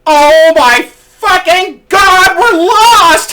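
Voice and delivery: very high, drawn-out shriek; mock panicked scream. Lady rider behind the guide panics, imitated shriek. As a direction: scream it slowly in hammed-up panic. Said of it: "this lady behind me goes".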